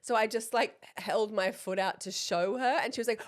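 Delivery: ordinary talk, nothing marked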